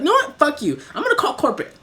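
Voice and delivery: high mocking threat to call corporate; mock customer threat. Customer threatening to call corporate, high mocking voice. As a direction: pitch it up like a huffy customer. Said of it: "she's like".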